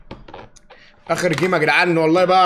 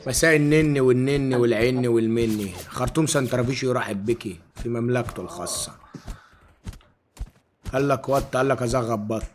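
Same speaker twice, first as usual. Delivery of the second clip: persona voice; 4 semitones lower, 4 dB quieter, slower than usual. Acted. Streamer takes on Khartoum persona.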